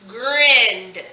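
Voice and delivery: Grinned drawn out as one syllable; one-syllable pronunciation. Shown as a demonstration. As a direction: say Grinned with one vowel and a final D. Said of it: "It's all one syllable".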